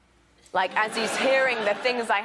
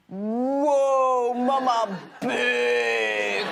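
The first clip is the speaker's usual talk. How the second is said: put-on slow louder child voice, drawn out; wide-eyed toddler; 2 semitones higher, 4 dB louder, much slower than usual. Little daughter in the bath, slow awed toddler voice. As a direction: marvel at mama like a toddler. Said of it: "she goes".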